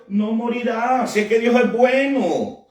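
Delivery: voz del enemigo. Acted. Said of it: "la misma voz que le dijo a Eva". (imitando al enemigo, alargando las palabras)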